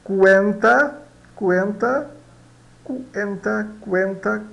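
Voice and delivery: "cuenta" starting with a KU glide; Spanish pronunciation model. Shown as a demonstration. Teacher drilling C U for learners, Spanish pronunciation model. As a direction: repeat "cuenta" as separate model words, K-U into enta. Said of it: "C U dá K U".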